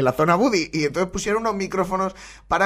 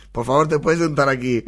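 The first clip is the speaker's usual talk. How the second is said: a hint of prissy, over-polite pleading; mock polite. Host imitating the contestant asking for arguments, lightly mock polite. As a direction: play at sudden politeness mid-fight. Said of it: "pero de repente".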